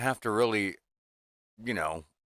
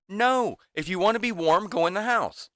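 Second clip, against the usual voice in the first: high mock stern grandpa; 12 semitones higher, 4 dB louder than usual.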